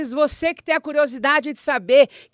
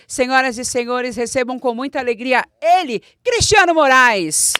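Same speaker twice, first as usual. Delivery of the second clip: grand entrance announcement; 6 dB louder than usual. Acted. Host introduces guest.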